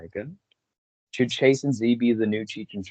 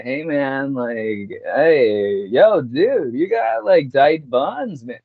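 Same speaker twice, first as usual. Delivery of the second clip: vocal fry; much slower than usual. Acted. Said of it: "he's got vocal fries".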